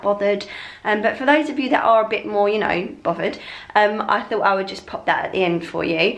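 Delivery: hoarse, croaky sick voice. Real, not acted. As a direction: talk through a sore throat. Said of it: "excuse my croaky voice throughout the video".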